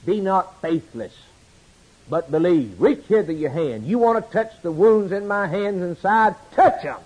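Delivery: Jesus rebuking doubting Thomas, firm and stern; firm rebuke. Acted. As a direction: press the doubter, firmly. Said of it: "doesn't hesitate to rebuke Thomas".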